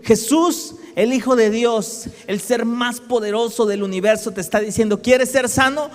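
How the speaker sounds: rising preaching fervor. Real, not acted. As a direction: swell the voice as you exalt Jesus. Preacher building to climax.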